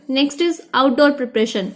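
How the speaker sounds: slow, deliberate heading and question; slow heading read. Shown as a demonstration. Teacher introducing outdoor preparation, slowly. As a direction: announce the topic word by word. Teacher announces new tip.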